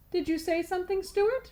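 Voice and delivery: high, questioning teacher. Acted. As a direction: ask like a suspicious teacher.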